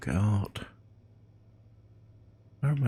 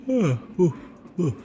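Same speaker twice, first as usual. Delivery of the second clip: awed ooh; 9 semitones higher than usual. Real, not acted. Gasping at a stunning sunset.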